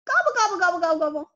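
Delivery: gobble like a turkey. Pretend. Turkey in review.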